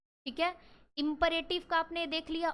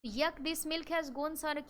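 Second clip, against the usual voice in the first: disgusted; 3 semitones higher, much slower than usual. Shown as a demonstration. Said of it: "आप इसमें disgust कह सकते हो".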